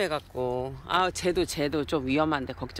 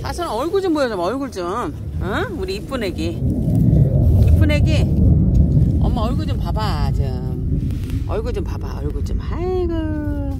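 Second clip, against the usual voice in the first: loud calling; 8 dB louder than usual. Real, not acted. Calling cat loudly.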